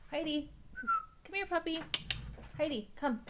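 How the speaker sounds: high, sing-song call to a puppy; calling the dog. Real, not acted. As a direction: coax the dog to come, voice rising high. Calling her dog over.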